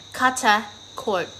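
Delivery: "Cutter Court" in a put-on Australian accent; Australian lazy tongue, "Cuttah Court" without the R. Shown as a demonstration. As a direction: drop the R's like an Australian. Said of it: "in Australian accent".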